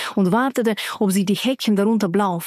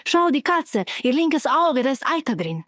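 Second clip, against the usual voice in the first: excited call; 5 semitones higher than usual. Acted. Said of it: "rief Carmela".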